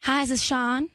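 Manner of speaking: hammed-up Southern accent; attempted Southern caller. Shown as a demonstration. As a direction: greet a customer in a put-on Southern accent. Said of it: "Let's hear Southern".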